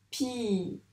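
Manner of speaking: "Pyjama" with long gaps, pii... jaa... ma; syllable by syllable. Shown as a demonstration. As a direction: say each syllable of "Pyjama" while drawing, unhurried. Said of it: "je dis chaque syllabe".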